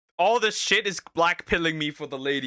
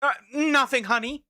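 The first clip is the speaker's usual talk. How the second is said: mock kid and mum; 6 semitones higher, 4 dB louder than usual. Acting kid and mum quote.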